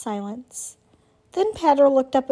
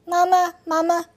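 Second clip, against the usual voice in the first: put-on higher baby-bird call; peeping gosling; 6 semitones higher, 3 dB louder than usual. A narrator's reading. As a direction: chirp it like a hatchling calling. Gosling calls Roz.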